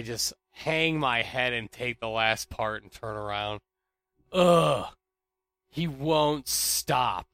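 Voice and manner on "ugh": loud "ugh" of frustration; exasperated groan. Real, not acted. Fed up with a staring coworker, exasperated groan.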